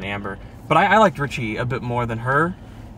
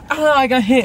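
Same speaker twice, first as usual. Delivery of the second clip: high, louder mock cry of pain; imitating a hit character; 10 semitones higher, 5 dB louder than usual. Retelling how she got hit, hammed-up cry. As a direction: cry out like you've just been hit.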